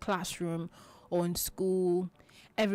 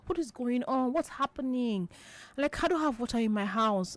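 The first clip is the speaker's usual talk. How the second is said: upset neighbour; 5 semitones higher than usual. Retold or imitated. Acted neighbour complaining.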